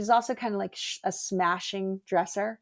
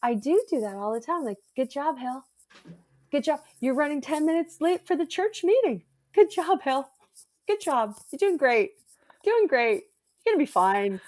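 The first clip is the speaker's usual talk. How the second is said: higher cheery self-encouragement; upbeat self-talk, higher; self-pep talk; 6 semitones higher than usual. Retold or imitated. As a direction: coach yourself through a bad day. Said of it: "I was like".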